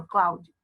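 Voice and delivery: "Cloud" cut short, one quick syllable; short single-beat "Cloud" for the class. Shown as a demonstration. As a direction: say "Cloud" briefly, no extra vowel at the end. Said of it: "Fala bem curtinho assim".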